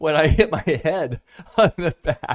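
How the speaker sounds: laughing through words. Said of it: "I'm laughing at this".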